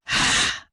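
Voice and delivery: short, forceful huff of breath; loud breathy sigh. A narrator's reading. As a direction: let out a loud, voiceless sigh. Sound between story dialogue lines.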